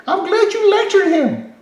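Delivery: high, loud, slow sarcasm; mock-sweet slow praise; sarcastic. Real, not acted. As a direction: drip with fake approval. Sarcasm at the commenter.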